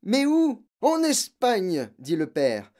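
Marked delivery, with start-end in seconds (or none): 0.0-0.6 high, loud urgent question; girl's exclaimed plea; insistent cry. A narrator's reading. Girl urgently repeats her question. 0.8-1.9 loud, high, drawn-out shout; irritated father shouting; shouted answer. A narrator's reading. Father shouts back his answer.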